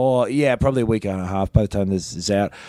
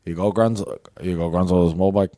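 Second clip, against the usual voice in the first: thick Scottish accent, almost Glaswegian; 5 semitones lower, faster than usual. Shown as a demonstration. Retrying the Scottish line for friends, thick Glaswegian accent. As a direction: lay on a heavy Glaswegian brogue. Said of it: "accent update".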